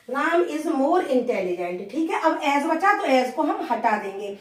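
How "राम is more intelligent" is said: slow, word by word; write-along pace for students; slow dictation. Shown as a demonstration. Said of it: "teacher dictates answer". (धीरे-धीरे बोलकर लिखवाना)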